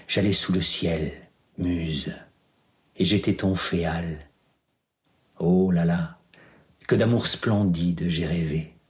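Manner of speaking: measured verse reading with long pauses; poem recitation. Acted. Reciting Ma Bohème as once before classmates, measured poem recitation.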